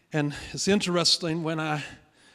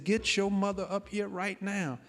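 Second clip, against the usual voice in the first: mildly agitated demand, pitched higher; agitated father; 5 semitones higher than usual. Retold or imitated. Father demands his wife be fetched, mildly agitated. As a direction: repeat the order with rising agitation, not shouted. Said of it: "he was getting all agitated".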